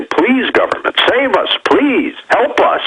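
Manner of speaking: high-pitched imitation of panicked begging; panicked plea. Host voicing the public begging government to save them, high mock panic. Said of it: "panic and say".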